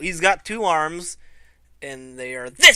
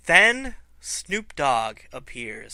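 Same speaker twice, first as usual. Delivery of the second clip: slow dramatic reveal; 3 semitones lower, slower than usual. Shown as a demonstration.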